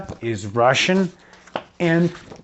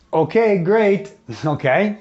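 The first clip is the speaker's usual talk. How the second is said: ordinary talk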